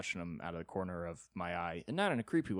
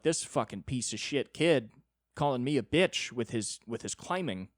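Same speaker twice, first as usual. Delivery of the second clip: mild mock yell, pitched up; retold screaming; 3 semitones higher, 5 dB louder than usual. Griping to laughing friends on the climbing wall, mock screaming. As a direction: re-enact an outraged rant without a full shout. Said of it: "I'm screaming in the rock climbing".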